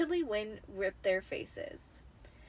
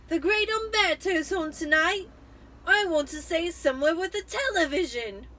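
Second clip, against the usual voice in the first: put-on high, louder whiny boy; sniveling Dudley; 7 semitones higher, 8 dB louder than usual. A narrator's reading. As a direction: whine it to his mother. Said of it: "Dudley sniveled".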